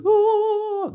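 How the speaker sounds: very high, long mock vocal wail; a shrill rehearsal yell heard through the hotel wall; imitated singer's scream. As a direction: ham up a singer belting a note from a festival rehearsal. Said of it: "Și auzeam repetițiile".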